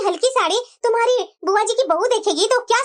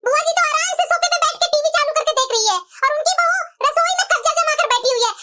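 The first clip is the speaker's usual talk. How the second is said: indignant, raised-pitch grumbling; angry complaint; 4 semitones higher than usual. Acted. Daughter grumbles to her mother about the aunt's daughter-in-law, angry complaint. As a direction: complain crossly to your mother. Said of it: "इतना गुस्सा क्यों हो रही है?".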